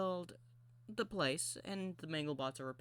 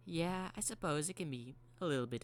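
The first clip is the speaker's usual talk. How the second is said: lightly pitched-up robot, conceding; playful Mangle voice; 5 semitones higher than usual. Acted. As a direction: start high and ease down as you concede.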